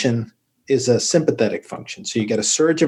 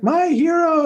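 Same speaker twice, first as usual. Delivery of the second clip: high breathy swoon, much higher pitch; swooning cave woman; slower than usual. Retold or imitated. Cave woman swooning over her hero, in a high mock voice. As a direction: coo it like a smitten admirer. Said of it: "you know, like".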